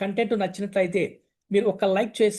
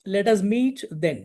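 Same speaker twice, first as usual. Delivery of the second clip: slow teaching read; much slower than usual. Shown as a demonstration. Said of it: "ఎప్పుడు ఫ్రీగా ఉంటావు? (phrase being taught)".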